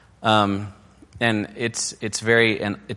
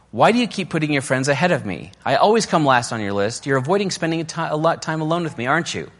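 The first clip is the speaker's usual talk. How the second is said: hurt accusation; 5 semitones higher, 3 dB louder than usual. Acted.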